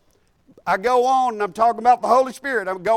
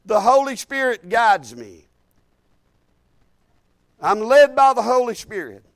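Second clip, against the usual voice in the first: bold confession; 3 dB louder than usual. Shown as a demonstration. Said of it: "take this Word and say".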